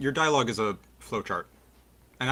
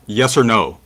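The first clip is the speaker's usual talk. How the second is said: loud imitation of a rigid questioner; mock demand; 2 semitones lower, 8 dB louder, much slower than usual. Caller mimicking the host's yes-or-no questioning, loud mock demand. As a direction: punch it out, mocking the host's demand. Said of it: "you don't talk to each other like".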